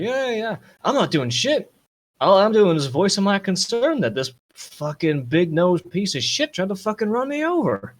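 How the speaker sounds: high-pitched, heated protest; indignant thug. Acted. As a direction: play an affronted loudmouth defying a cop. Game master acts indignant thug.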